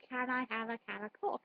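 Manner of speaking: "Coke" with a short vowel, like "cock"; botched Liverpool drill, "Coke" shortened to "cock"; mispronounced Coke. Shown as a demonstration. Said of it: "mine came out as".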